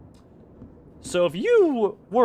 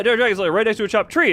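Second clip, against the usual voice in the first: excited; 4 semitones higher, 5 dB louder, faster than usual. Real, not acted. Repeats answer excitedly.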